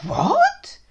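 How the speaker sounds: high breathless whispered what; shocked gasp. Acted. Dad shocked at the teacher's blame, whispered.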